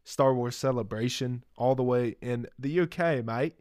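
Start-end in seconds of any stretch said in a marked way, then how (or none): 2.6-3.5 put-on slipping into a light Australian accent on mate; a brief Australian twang on the last words; accidental Australian accent. Podcast host dropping into an Australian accent by accident. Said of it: "Oh, that sounded Australian".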